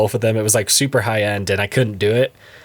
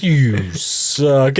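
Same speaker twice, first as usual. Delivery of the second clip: slow-mo voice. Retold or imitated. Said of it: "It's in slow-mo voice".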